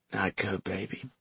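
weak, faint whisper. Acted. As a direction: barely voice it, in pain. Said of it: "she speaks in a whisper".

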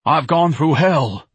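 slobbering. Acted. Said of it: "Ignatius slobbered".

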